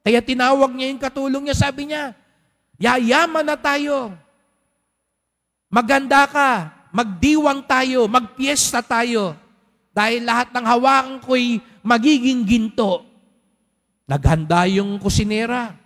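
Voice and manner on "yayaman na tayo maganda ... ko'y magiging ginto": gleeful king. Acted. Hari sa katulong, nagdiriwang. (hari na masayang nag-aanyaya sa katulong, bahagyang masigla)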